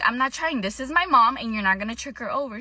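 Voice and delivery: aggressive retelling. Retold or imitated. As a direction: stand up to the vendor. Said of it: "they're all aggressive".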